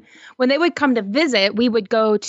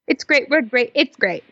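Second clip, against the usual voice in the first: cheer; 2 semitones higher than usual. Acted. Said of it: "That sounded like a cheer".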